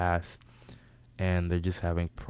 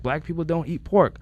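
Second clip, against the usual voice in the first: high, louder mock certainty; imitated insistent friend; 10 semitones higher, 5 dB louder than usual. Host insisting to his guest, mock adamant. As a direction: imitate a cocksure friend, pitched up.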